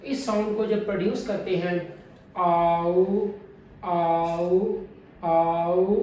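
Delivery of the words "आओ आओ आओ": औ with a long, loud first part; first vowel long and loud. Shown as a demonstration. Teacher stresses the first vowel of औ. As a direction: lean on the start of औ. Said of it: "पहले वाली ध्वनि मेरी लंबी रहेगी".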